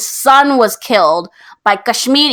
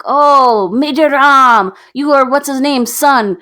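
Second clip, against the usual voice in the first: mock exclamation; 4 semitones higher, 3 dB louder, slower than usual. Acts out Sunil Shetty's loud greeting.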